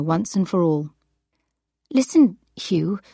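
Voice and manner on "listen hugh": tight, nervous voice. Acted. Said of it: "she said in a tight, nervous voice".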